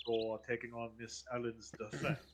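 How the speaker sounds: put-on polite, formal old butler. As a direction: speak like a courteous household butler. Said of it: "my butler voice".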